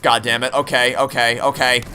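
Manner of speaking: ordinary talk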